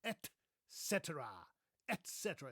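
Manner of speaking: "et cetera" with a clear t, ET SET-er-a; crisp "et" before "cetera"; two separate words. Shown as a demonstration. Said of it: "it's actually two words".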